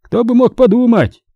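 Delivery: father teasingly mimicking his son; mocking imitation. A narrator's reading. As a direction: mimic the boy to tease him. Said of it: "передразнил он Терри".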